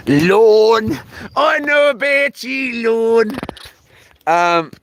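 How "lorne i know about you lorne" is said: higher, slow sing-song tease; lightly voiced playful taunt; mock teasing voice. Teasing call to girlfriend.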